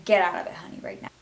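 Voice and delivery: loud, firm "get out of it"; urgent advice. Real, not acted. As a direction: warn them straight.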